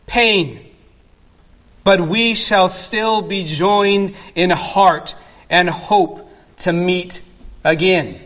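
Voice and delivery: reads the hymn verse in a measured, slowed cadence; hymn recitation. Acted. Pastor quoting a hymn to his congregation, measured poetic reading. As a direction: let each hymn line land gently, like a quoted poem. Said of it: "John Fawcett captures this very thought".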